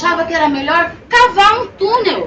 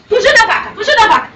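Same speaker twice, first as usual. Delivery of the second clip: frantic fleeing; 8 semitones higher, 5 dB louder than usual. A narrator's reading. Fleeing the angry cow.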